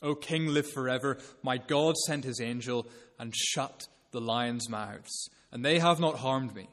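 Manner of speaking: understated triumph as Daniel answers the king; a touch of triumph, calm and sure; triumphant. Retold or imitated. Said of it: "he says triumphantly".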